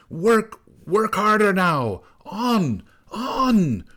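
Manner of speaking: high, driving shrieked orders; shrill commanding storm-witch cry; old snow woman. A narrator's reading. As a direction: urge the workers on through a gale. Snow woman drives on her helpers.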